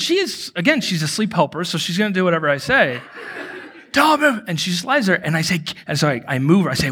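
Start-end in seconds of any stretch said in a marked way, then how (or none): 3.9-4.4 high, tense mock order; acted-out high-pitched warning; retold urgent command. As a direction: order her urgently to freeze. Repeating his sleepwalking command to wife.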